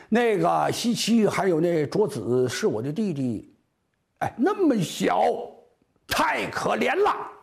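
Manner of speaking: high, hammed-up tearful whine; half laughing, half sobbing complaint; crying and laughing. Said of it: "连哭带笑的".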